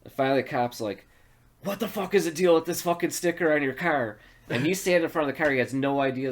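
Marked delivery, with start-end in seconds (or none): 1.6-4.2 higher, indignant cop demand; mock bullying cop. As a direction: imitate an irritated cop confronting someone. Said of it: "he's being a total fucking asshole".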